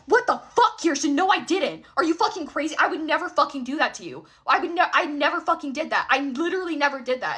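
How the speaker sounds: retold angry yelling. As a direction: replay his outraged denial. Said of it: "he's yelling at me".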